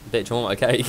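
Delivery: says it through a laugh; half-laughing, still wants the cake; laughing demand. Real, not acted. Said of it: "That was unexpected".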